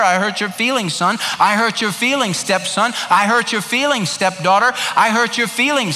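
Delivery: humble apology. Acted. Offender confessing to wife, kids and stepfamily, pleading and humble. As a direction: own it to each family member in turn.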